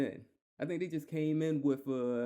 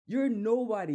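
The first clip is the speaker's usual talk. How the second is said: scornful outburst; 6 semitones higher, 5 dB louder than usual. Real, not acted. Ranting at racist manager.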